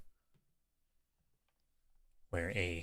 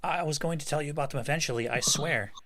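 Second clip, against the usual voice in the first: fast, high, stammering excuse; panicked pleading; 8 semitones higher, 4 dB louder, faster than usual. Acted. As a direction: blurt it out in a panic.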